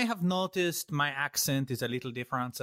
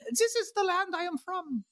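grand proclamation. Acted.

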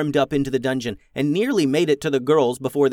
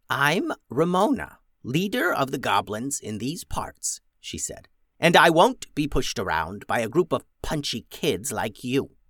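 proud goblin leader. Acted. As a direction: stand firm as goblin chief. Ramona introduces herself.

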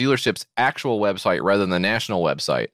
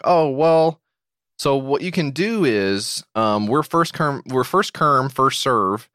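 strange voice; much slower than usual. Retold or imitated. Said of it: "he began to talk in a strange way".

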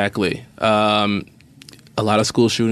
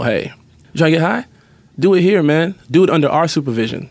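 put-on casual, slightly louder pitch to kids; laid-back street talk; 4 semitones higher, 3 dB louder than usual. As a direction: sell it like a cool mentor. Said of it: "and let them know".

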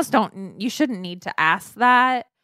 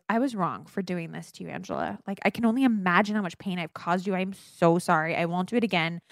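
a touch softer, mock heartfelt sorry; over-the-top apology; 3 semitones lower, 4 dB quieter than usual. Host mock-apologizes to her co-host, softly overdone. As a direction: lay the remorse on thick but lightly. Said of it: "imagine if my apology was".

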